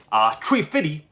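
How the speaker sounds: Chef impression. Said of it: "is Chef from South Park".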